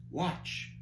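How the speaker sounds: hushed, breathed whisper; quiet whisper. Acted. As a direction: whisper it so as not to be seen. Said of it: "the interpreter said quietly".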